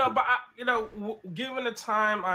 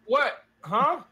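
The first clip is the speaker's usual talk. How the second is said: garbled robotic mic sound; 7 semitones higher, 5 dB louder than usual. Real, not acted. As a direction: voice breaking up like a robot over a bad mic. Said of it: "is making you sound robotic".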